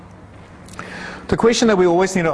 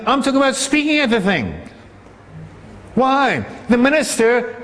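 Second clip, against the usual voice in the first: higher-pitched, insistent sermon delivery; impassioned preaching; 6 semitones higher than usual. Acted. Preacher arguing the small group should lead the funeral, insistent. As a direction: press the questions home to the congregation. Preacher presses a rhetorical point.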